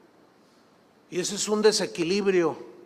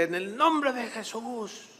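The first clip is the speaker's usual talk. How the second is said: slow, higher, drawn-out invocation; imitating fervent prayer; 4 semitones higher, 4 dB quieter, slower than usual. Girlfriend ends her prayer over the man, imitated fervour. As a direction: stretch each word in mock solemn prayer.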